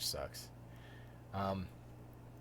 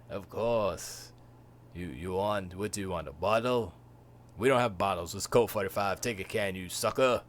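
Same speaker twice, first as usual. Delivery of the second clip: smooth Lando; 3 semitones lower, 3 dB louder than usual. Retold or imitated. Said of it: "how Lando was smooth".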